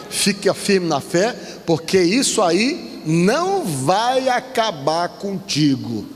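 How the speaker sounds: preacher's drawn-out, rising and falling exhortation; pregação exortativa. Real, not acted. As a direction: urge the congregation, stretching key words. (pregação enfática, palavras alongadas)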